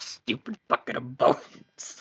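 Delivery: breathy, hushed, whispered grumble under the breath. In character during a roleplay game, muttering. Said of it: "Mutter something that".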